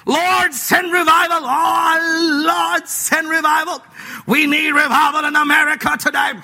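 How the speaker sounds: lightly mocking churchgoer crying out for revival; mock Pentecostal prayer. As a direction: parody a fervent revival prayer. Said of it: "sounds like Pentecostal people".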